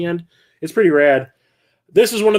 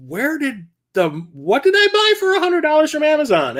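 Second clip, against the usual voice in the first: a retold double-take at a bank statement; puzzled mock surprise; 12 semitones higher than usual. Vlogger retelling his shock at a bank charge, in a high puzzled voice.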